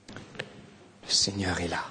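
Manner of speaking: hushed pastoral prayer. Acted. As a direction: pray over the congregation. Leads a prayer.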